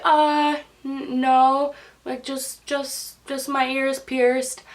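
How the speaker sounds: small, halting, acted-out denial; hesitant. Patient answering about tattoos and piercings, hesitantly. Nervous answer to intrusive question.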